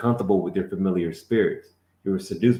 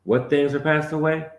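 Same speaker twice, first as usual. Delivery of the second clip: challenging question; 8 semitones higher than usual. Real, not acted. Teacher pushing the student to repeat. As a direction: demand the answer back.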